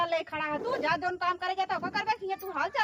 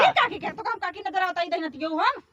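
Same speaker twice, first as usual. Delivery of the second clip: indignant scolding. Acted. Offended at being called auntie again.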